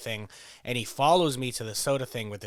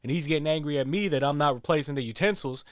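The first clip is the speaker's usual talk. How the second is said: imitating the worker; 3 semitones higher, 4 dB louder than usual. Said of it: "the guy starts going".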